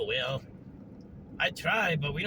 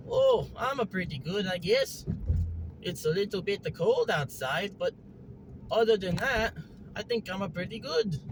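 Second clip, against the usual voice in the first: lightly put-on Mario-like lilt; a hint of Mario-style small talk; Hopalong, amiable; 4 semitones higher than usual. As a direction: chat as an easygoing cartoon character. Plays Hopalong making small talk.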